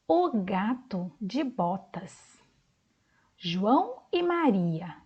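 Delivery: put-on slow, clear reading to children; reading titles aloud. Teacher reads the story titles slowly to the class. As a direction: read each title slowly for young listeners.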